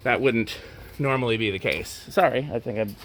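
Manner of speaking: out of breath, catching air. Real, not acted. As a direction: talk between breaths. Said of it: "you see how I'm out of breath now".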